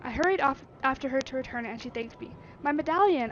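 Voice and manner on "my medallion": pleased Yorkshire. Acted. Artificer pleased.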